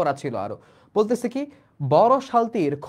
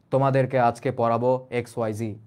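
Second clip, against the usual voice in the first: lower, heavy teacher's voice; deep voice; 6 semitones lower than usual. Shown as a demonstration. Teacher showing what a deep voice sounds like, low. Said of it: "আমি যদি বলি আওয়াজ একটু মোটা".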